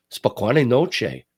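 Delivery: loud, hammed-up Russian accent, drawn out; mock Russian. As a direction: show off bad Russian at full volume. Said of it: "That's my Russian".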